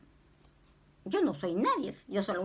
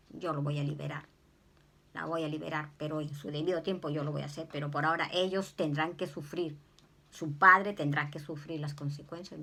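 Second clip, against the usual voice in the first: firm voice of the Lord; 4 semitones lower than usual. Retold or imitated. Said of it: "me dijo el Señor".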